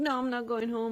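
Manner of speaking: mock crying, imitated childlike crying voice. Retelling a child refusing to leave the car seat at midnight, imitating him crying. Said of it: "and he was crying".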